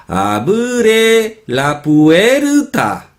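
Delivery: mock Asian accent, high, slow a-bu-re la pu-e-ru-ta. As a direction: imitate Asian speakers adding syllables to "abre la puerta". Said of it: "los asiáticos, ¿no? Pronuncian". (acento asiático imitado, agudo y silabeado)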